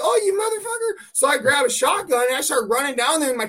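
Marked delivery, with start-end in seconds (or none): 0.0-1.1 high, mock-furious curse at the bear; retold outburst. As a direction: spit it out in mock rage, pitched up. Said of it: "And I'm like".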